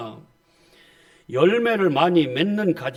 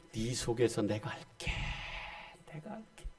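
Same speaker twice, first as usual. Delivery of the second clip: soft divine reassurance; 3 semitones lower, 12 dB quieter than usual. Acted. God's gentle promise.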